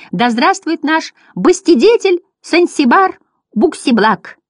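high, slow grand cheer; jubilant yelling. A narrator's reading. Butterflies cheering their benefactor, high drawn-out acclamation. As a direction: hail him in a high clown voice. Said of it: "орали они".

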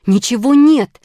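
high and forceful, carrying downwards; calling down. A narrator's reading. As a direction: call down from up a tree. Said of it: "крикнула она сверху".

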